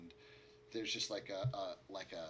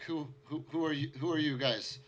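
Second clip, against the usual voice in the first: high, loud, panicked questions; frightened outburst; 6 semitones higher, 9 dB louder than usual. Acted. Survivor confronts the party, high and panicked. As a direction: recoil from strangers in terror.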